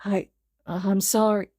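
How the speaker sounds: slow, teary, choked sorry; tearful apology. A narrator's reading. Izuku apologizes into Kacchan's shoulder, tearful. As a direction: near tears. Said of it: "his voice muffled against the boy's shoulder".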